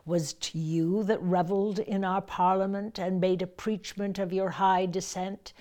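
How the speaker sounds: two lines carried on a single breath; verse on one breath. Shown as a demonstration. Actor showing Margaret mocking York, lines on one breath. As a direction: ride the air through both lines. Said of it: "I've just done two lines on one breath".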